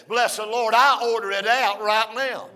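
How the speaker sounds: loud preacher's order; retold command. Son orders the nurse in the Lord's name, loud and firm. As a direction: declare it like a command.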